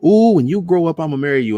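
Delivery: put-on sing-song tease to a child; jokey relative. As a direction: relative teasing a little girl, cooing. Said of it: "that jokey joke stuff".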